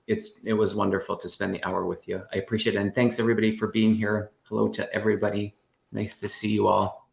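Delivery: talking while crunching a hard candy. Real, not acted. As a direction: speak around a candy you're chewing. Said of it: "I'm crunching on a candy".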